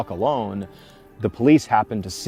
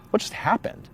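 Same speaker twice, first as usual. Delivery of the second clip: breathless whispered question; whispering; 10 semitones higher, 6 dB quieter than usual. Retold or imitated. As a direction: whisper it, stunned and shaken. Girls shaken after the chase.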